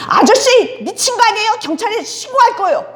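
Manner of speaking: high, sharp telling-off; firm nurse. Retold or imitated. Nurse ordering the drunk man out, sharp and firm. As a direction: throw the drunk out firmly.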